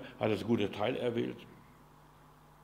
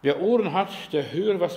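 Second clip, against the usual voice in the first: louder proclamation; booming call; 3 semitones higher, 6 dB louder than usual. Acted. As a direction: call it out to the congregation. Repeated scripture call. (laut ausgerufen)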